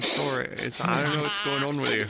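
lightly imitated gruff British voice; a hint of a gruff British impression; Strippin', gruff British. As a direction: do a friend's gruff British accent, drawing out the end. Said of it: "he'd say in his gruff British voice".

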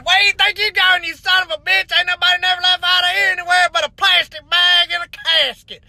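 comic indignant quote; mock challenge. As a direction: challenge him, lightly hammed up. Acted challenge from passport man.

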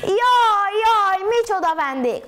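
high, loud wailing cry of alarm. A narrator's reading. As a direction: wail as if being murdered. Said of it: "úgy jajgatott".

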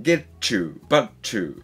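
"get you" and "but you" with t and y merged into "chu"; teacher showing how "get you" becomes "gechu" for students; linked t-y sound. Shown as a demonstration. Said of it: "こういうつながりの音は".

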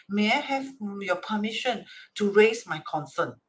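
courteous, careful asking; polite request. Shown as a demonstration. Litigant asking the judge's permission to speak, polite request. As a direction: ask permission with deference. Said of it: "Always ask politely first".

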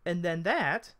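high-pitched elf hostess; high elf introduction; Esmeralda the elf. Acted. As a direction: point her out in a high voice.

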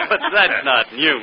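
slow words still shaking with a laugh; laughing through words. Acted. Ellery teases the magician about his old trick, laughing. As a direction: let the laugh carry into the line.

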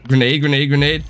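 urgent repeated callout; grenade warning yell. Real, not acted. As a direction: shout the warning fast. Calling out incoming grenade.

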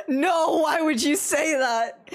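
high, loud wail through laughter; laughing protest. Real, not acted. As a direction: protest helplessly while cracking up. Shocked, laughing protest at remark.

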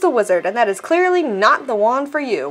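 lightly voiced wandmaker, measured and deliberate; a hint of a ceremonious shopkeeper; wandmaker Ollivander.

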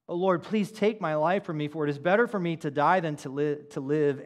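desperate plea. Retold or imitated. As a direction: beg God outright, a touch dramatized. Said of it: "You know how low this is for Jonah?".

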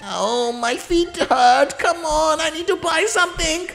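put-on very high, fast cracked old-lady voice; shrill laughing grandma; old granny complaining. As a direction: whine like an impatient granny. Voicing Granny.

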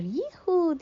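high gleeful whoop; thrilled yell; excited whoop. Acted. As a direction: cry out with glee on the whirlpool. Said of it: "diye çığlık atar".

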